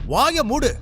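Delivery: furious yell. Acted. Wife yells at husband over her friend, furious and high. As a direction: tell him to shut up, pitched high and furious. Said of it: "அந்த அறை அதிரும் அளவிற்கு கத்த".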